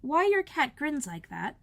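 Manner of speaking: Alice timidly addressing the Duchess. Acted. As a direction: ask shyly and high. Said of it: "said Alice a little timidly".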